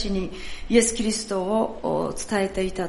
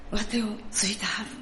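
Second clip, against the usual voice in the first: whisper; 7 dB quieter, faster than usual. Shown as a demonstration. Hymn refrain ends in a whisper.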